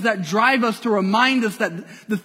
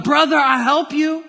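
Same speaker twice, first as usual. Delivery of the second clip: higher, louder, lightly voiced sly villain; Scar's fake offer; 6 semitones higher, 4 dB louder than usual. Pastor voicing Scar tricking Mufasa on the cliff, sly. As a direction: play the false brother offering help.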